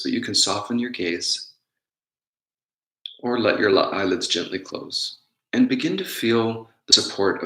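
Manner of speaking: unhurried meditation guidance with long pauses; guided meditation. Real, not acted. Teacher guiding listeners to notice their breath, calm guided meditation. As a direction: guide them gently inward, leaving space between phrases.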